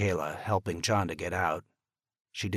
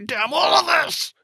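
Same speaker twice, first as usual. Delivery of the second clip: much higher, much louder, at the peak; full scream; 11 dB louder than usual. Acted. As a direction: scream it with everything, on the verge of tears. Father raging after the call.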